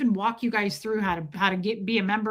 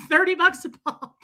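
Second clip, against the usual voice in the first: higher-pitched hawker's price call; mock ticket scalper; 6 semitones higher, 4 dB louder than usual. Streamers selling members-only gossip like tickets, mock scalper's call. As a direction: imitate a scalper naming the price. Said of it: "he becomes a scalper".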